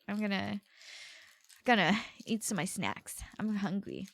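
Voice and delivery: hushed aside; whispered. Real, not acted. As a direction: whisper it to yourself. Aside about snacks.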